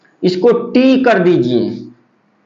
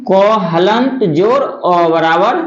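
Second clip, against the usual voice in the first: क हलंत जोर अ spelled out slowly; slow breakdown; 2 semitones lower, slower than usual. Shown as a demonstration. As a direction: build क from हलंत plus अ, slowly. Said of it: "यानी कि". (धीरे धीरे क हलंत जोर अ)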